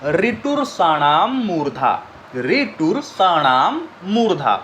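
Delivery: slow, measured chant said twice; slow sutra recitation. Shown as a demonstration. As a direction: recite the formula for memorising. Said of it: "तीसरा formula क्या है?". (धीमे से सूत्र का पाठ)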